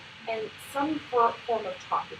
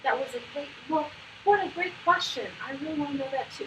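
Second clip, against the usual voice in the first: celebrating; 3 semitones higher than usual. Shown as a demonstration. Coach shows praising a child who looked at them, celebrating. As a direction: relish every bit of praise. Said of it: "really focusing on celebrating the interaction".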